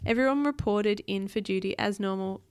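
put-on animated read-aloud for a child; storybook narration; story narration. A narrator's reading.

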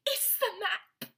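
high, drawn-out playful squeal; mock-amazed high squeal; excited squeal. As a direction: echo the thrill in a high, slow voice. Echoing the excited map outburst.

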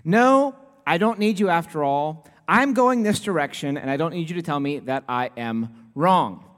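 mock-irritated retort to the GPS; mild mock annoyance talking back to the phone; annoyed at the phone. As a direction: brush off the nagging machine. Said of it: "when I'm really annoyed with that thing".

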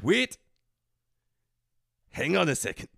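slipping put-on Scottish accent; bad Scottish accent going astray; fake Scottish accent. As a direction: plead in a wobbly Scottish accent. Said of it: "Which is very Japanese just now".

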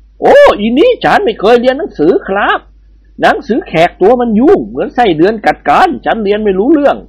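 lightly voiced Indian bandit; Indian babu voice. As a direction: play the amused bandit babu. Babu character voice.

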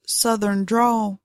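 slow Southern drawl; lightly played-up Southern drawl, taking its time. Shown as a demonstration. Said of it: "Yeah, it's the drawl".

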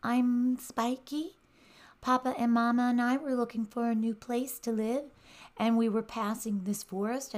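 put-on high, small shaky child voice; shaky little hedgehog. A narrator's reading. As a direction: speak small and trembling. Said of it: "answered with a shaky voice".

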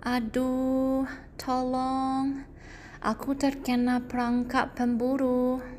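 rintih minta tolong dengan suara tinggi; kesakitan. Acted. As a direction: berteriak minta tolong karena terjebak. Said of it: "Tampaknya kesakitan". (singa terjebak memanggil bantuan, tinggi dan kesakitan)

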